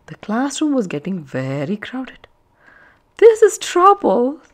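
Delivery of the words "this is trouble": put-on higher, louder, slow worried boy; mild alarmed boy muttering to himself; worried aside. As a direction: say it to yourself, alarmed. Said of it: "Zach said to himself".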